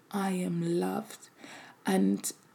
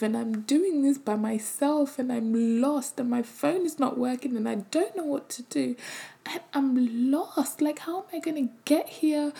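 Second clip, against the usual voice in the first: higher, distressed retelling of the panic; frustrated and lost; 4 semitones higher than usual. Retold or imitated. Mother recalling her panic at being lost while driving, raised and upset. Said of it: "I was frustrated because I was like".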